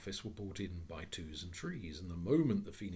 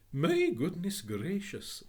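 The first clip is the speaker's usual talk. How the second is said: higher, louder, slow exclamation; astonished gentleman; 10 semitones higher, 9 dB louder, slower than usual. Acted. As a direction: gasp it out in wonder. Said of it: "said the gentleman".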